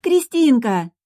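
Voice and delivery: high, loud joyful call of a name; the sister hugs the bride, calling out happily; happy cry. Acted. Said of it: "счастливая Ника".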